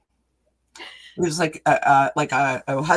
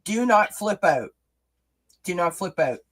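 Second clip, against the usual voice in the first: playful loud warning; 4 semitones higher, 5 dB louder than usual. Acted. Reading card advice playfully.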